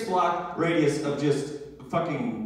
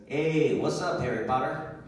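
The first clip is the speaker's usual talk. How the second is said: lightly put-on Hispanic accent, a casual street greeting; a hint of a Hispanic accent, friendly call-out. Corner dealer greeting him, lightly voiced Hispanic accent. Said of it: "I have to use that accent".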